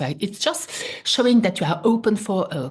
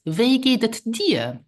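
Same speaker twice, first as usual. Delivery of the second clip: slow "Wie geht es dir?" with a higher voice; slow model phrase; 4 semitones higher, slower than usual. Shown as a demonstration. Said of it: "more personal is".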